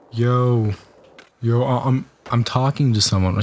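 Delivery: lightly put-on voice quoting a girl; mock version of her voice; exaggerated girl's quote. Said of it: "She didn't sound like that".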